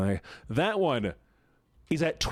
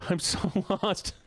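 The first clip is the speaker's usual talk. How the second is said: put-on voice; 7 semitones higher than usual. High put-on voice lost.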